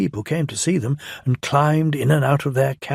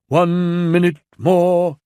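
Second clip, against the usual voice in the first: impatient; 6 semitones higher, 6 dB louder, slower than usual. A narrator's reading. Controller impatient on platform.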